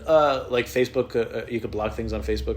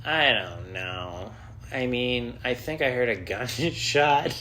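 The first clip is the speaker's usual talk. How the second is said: timid, slow; 2 semitones higher, much slower than usual. Retold or imitated. Timid 911 call.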